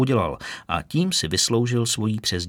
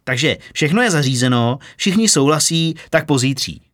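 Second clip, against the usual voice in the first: louder, higher, bursting with the good news; excited report; 4 semitones higher, 4 dB louder than usual. Acted. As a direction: announce it all in one happy rush. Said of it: "celý nadšený a vzrušeně mu hlásil". (nadšené, vzrušené hlášení)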